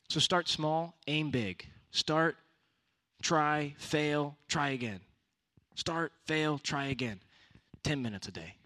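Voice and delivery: rally them step by step; rousing preaching. Real, not acted. Preaching chant of steps.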